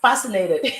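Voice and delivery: laughing. Shown as a demonstration. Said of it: "I was gonna change my African accent".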